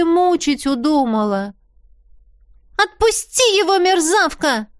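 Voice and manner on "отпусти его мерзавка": high, loud furious cry; fierce yell. A narrator's reading. Heroine yells at Янина to let the prince go, fierce yell. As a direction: shout her off him with all your rage. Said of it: "закричала я ... грозного вопля".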